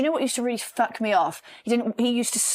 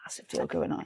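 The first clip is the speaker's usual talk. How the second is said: boastful busy colleague; 4 semitones lower, 7 dB quieter than usual. Retold or imitated.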